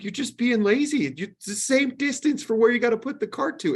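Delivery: retold scolding.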